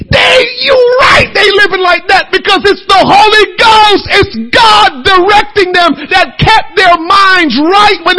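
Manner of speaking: lifted, shouting preaching voice; full-force preaching. Acted. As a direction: drive it home to the congregation.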